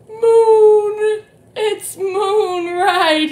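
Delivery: high, loud delighted moon; excited reveal. Shown as a demonstration. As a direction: announce the answer with glee. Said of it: "what is that thing".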